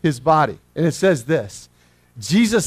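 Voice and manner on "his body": a touch of desperate pleading with a laugh; desperate plea. Retold or imitated. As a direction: mock-desperate Mary, higher pitched. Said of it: "You know".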